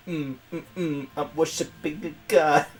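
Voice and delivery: ordinary talk, nothing marked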